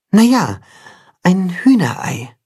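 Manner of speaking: a hint of a wise old cat, unhurried; knowing cat. A narrator's reading. (leicht gesprochene, geheimnisvolle Katze)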